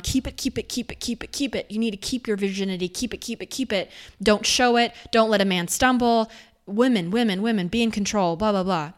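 a hint of a nagging church voice; parroting the church's warnings; mocking preacher. Mocking religion's purity message, lightly nagging. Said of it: "too much fear around".

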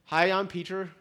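light put-on Irish accent. Preacher jokingly introduces himself under an Irish name, Irish accent. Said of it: "my Irish accent".

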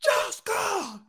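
high, slow drawn-out calls; mock family yelling. Mimicking someone calling Lana's family, high mock yell. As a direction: call them in a high, stretched holler.

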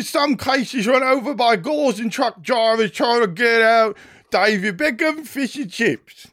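high, loud, hammed-up fake British accent; mock a British propagandist in an overdone British accent. Host mocks Elon Levy's tweet in a fake British accent. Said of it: "my fake British accent".

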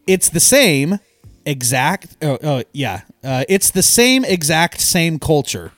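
stumbling over the written words; reading aloud haltingly. Real, not acted. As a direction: read it with false starts. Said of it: "I'm struggling reading this right now".

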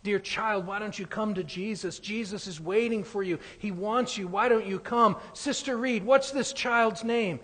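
minister pleading. Retold or imitated. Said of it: "the minister saying".

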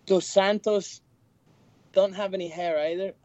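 hosting the picks in a mock Swedish DJ voice; mock English Swedish DJ accent. English Swedish DJ accent, lightly done. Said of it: "do it in an accent".

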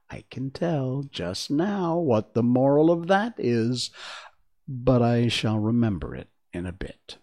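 put-on old duchess, prim and fussy; frail withering duchess. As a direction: play the Duchess, lightly aged. Duchess speaking to Alice.

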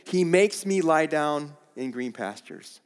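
"makes" leaned on like an order; stressing "makes" as an order; commanding read. Pretend. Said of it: "it's a command".

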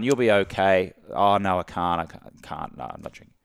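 mopey, reluctant no that sinks and fades; a sad, sorry no that dies away; deflated refusal. Shown as a demonstration. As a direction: sound deprived and apologetic, trailing off. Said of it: "the tonality is down".

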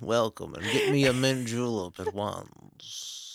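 lazy Southern gentility; Southern accent. Pretend. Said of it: "I don't think I've ever heard you do a Southern accent".

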